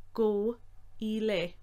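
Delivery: broken into separate syllables; slow syllable by syllable. Shown as a demonstration. Teacher breaking up Irish command slowly. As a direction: say each syllable apart. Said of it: "slowly said".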